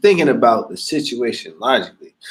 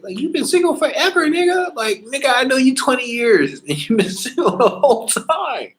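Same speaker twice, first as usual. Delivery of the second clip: teasing laugh; 12 semitones higher than usual. Real, not acted. Teasing a single friend.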